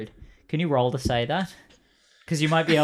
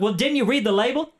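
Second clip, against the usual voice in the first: high, pompous skeleton voice; 10 semitones higher than usual. Acted. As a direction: play the huffy dapper skeleton. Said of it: "He's like".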